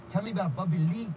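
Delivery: imitating a fan's Asian accent. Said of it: "when you did the accent".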